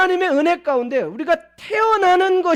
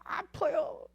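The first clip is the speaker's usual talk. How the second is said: higher, soft whimpering complaint; whining crybaby voice; 6 semitones higher, 5 dB quieter than usual. Pretend. Believer whining to the Lord like a helpless baby, soft and high. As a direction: whine like a spoiled child begging for care. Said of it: "구사하는 언어 그거 하나요?".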